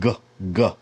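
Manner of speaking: a short voiced G, said on its own; isolated hard g; hard G sound. Shown as a demonstration. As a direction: give a clean hard "g". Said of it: "Gimel is the G sound".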